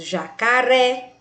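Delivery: "jacaré" with the weight on the final "ré"; stress on final syllable. Shown as a demonstration. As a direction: lean on "ré" at the end of "jacaré". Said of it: "Perceba que o ré". ("jacaré" com a última sílaba, "ré", mais forte)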